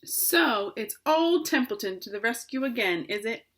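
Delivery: sarcastic rat grumbling, whining; disgusted. Acted. Rat mocking requests made of him, disgusted. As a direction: sneer it like a put-upon rat. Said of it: "he said in disgust".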